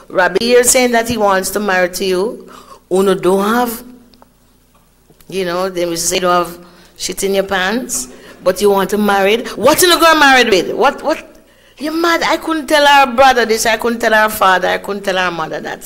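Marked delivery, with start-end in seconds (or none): 0.1-11.2 loud, rising indignant rant. Retold or imitated. Auntie ranting at the niece about the penniless suitor. 11.8-12.2 high, scoffing "You're mad."; scoffing rebuke. Retold or imitated. Auntie dismissing the marriage plan as madness.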